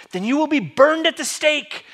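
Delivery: high, furious-sounding shout; shouting back. Acted. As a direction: shout the sentence at him, enraged. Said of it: "He shouts back".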